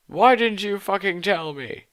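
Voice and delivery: high, loud hammed-up yell; shouting. Draco yells at Ebony for keeping secrets, hammed-up shout. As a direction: shout it in mock outrage. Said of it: "he shouted".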